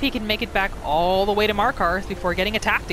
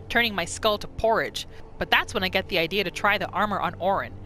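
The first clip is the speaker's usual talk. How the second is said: lightly voiced bandit boss recounting the raid; bandit leader's note. Streamer reads the bandit leader's journal, lightly in character. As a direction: tell it like a scheming bandit chief, a little rough.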